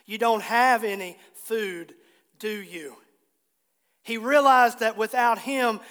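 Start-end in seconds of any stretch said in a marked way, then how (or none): 0.0-3.0 compassionate. Retold or imitated. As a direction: ask it with understated compassion. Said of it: "I think he said it with compassion".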